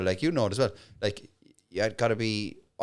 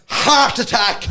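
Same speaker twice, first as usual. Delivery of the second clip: slow, high, laughing; laughing quote; 9 semitones higher, 8 dB louder, much slower than usual. Retold or imitated. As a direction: drag it out while laughing. Punchline quote in story.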